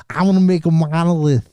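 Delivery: put-on dorky human accent. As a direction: play a dorky guy saying it proudly. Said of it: "a dorky human a-, uh, accent".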